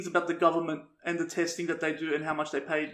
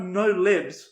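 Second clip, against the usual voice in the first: mock yell; 6 dB louder than usual. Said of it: "starts yelling out".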